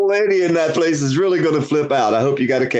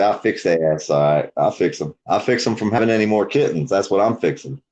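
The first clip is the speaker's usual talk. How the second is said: low, gruff voice, half joking; playful low threat to the cat; gruff mock threat; 6 semitones lower than usual. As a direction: growl it like a farmer fed up with kittens. Joking about neutering pets.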